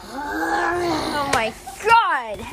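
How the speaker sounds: very slowly drawn-out hammed-up oh my God; theatrical despair; dramatic exclamation. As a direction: stretch it out like a soap opera. Mock outrage over the memorial.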